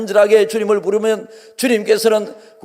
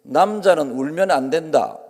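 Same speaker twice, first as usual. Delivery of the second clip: stern Confucian saying; 6 semitones lower, 4 dB quieter than usual. Retold or imitated. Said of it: "유교적인 저 방법은".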